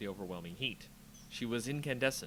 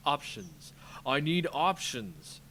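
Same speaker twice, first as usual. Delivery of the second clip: louder, slow, pressed commander; urgent demand; 3 semitones higher, 6 dB louder, slower than usual. Acted. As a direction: bark for answers. Gideon under attack.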